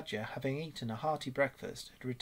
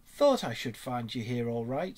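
hearty greeting, a little louder at the start; cheerful; 6 dB louder than usual. A narrator's reading. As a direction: hail your friends cheerily. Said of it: "said the otter cheerfully".

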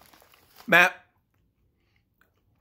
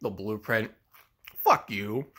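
muttered sneer; 9 semitones lower, 7 dB quieter, slower than usual. Acted. Low sneer at Morgan.

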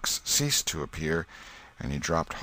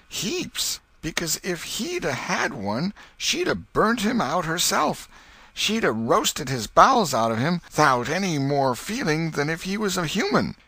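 put-on much higher boy voice, pert and quick-witted; a boy scoring a point off his aunt; Tom, sly and earnest; cheeky boy; 10 semitones higher than usual. Tom argues with Aunt Polly.

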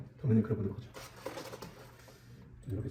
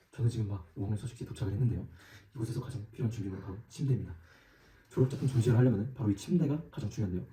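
hushed nature documentary; 2 semitones lower, 4 dB quieter than usual. Acted. Documentary narration, sleeping person.

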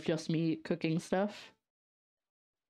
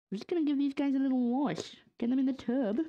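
cutesy bath-time voice; 7 semitones higher than usual. Pretend. Washing sprouts like babies in tub.

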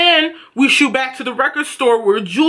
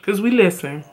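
1 sarcastic; 5 semitones lower than usual. Real, not acted. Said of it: "that sounds, like, really sarcastic".

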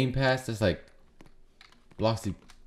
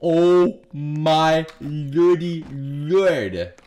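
drawn-out shock; much slower than usual. Real, not acted. Shocked by an RPG.

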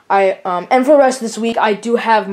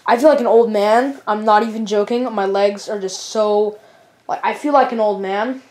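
tired; 2 semitones lower, 3 dB quieter than usual. Real, not acted. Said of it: "I'm really tired right now".

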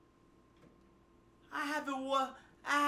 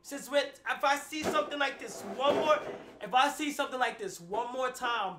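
laughing; 9 dB quieter, faster than usual. Real, not acted. Laughing while complaining.

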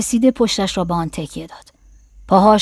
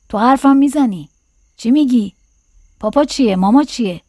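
put-on delighted child; 4 semitones higher than usual. A narrator's reading. Delighted boy questions his new doll.

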